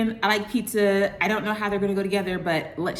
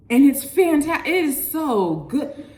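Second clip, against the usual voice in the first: laughing praise; 6 semitones higher, 5 dB louder than usual. Real, not acted. Raving, laughing.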